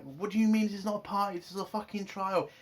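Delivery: fast, heated retelling of an angry protest; mock-furious indignation at a fake party; mad Boimler. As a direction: snap it out like an outraged crewman. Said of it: "Boimler's fucking sh-, mad, like".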